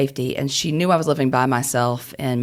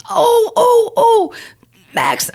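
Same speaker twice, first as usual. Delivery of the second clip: much higher, louder, frantic wail; dramatic grandmother; 8 dB louder, much slower than usual. Retold or imitated. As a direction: play the panicked grandmother crying out. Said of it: "my grandmother is very dramatic".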